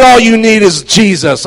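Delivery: loud, high preacher's taunt; shouted rebuke. Retold or imitated. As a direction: hurl it at the congregation, slow and loud. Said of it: "I started talking like this".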